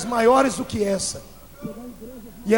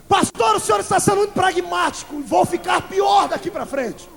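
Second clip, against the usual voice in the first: fiery preaching; 7 semitones higher than usual. Acted. Imagined congregant, then preacher.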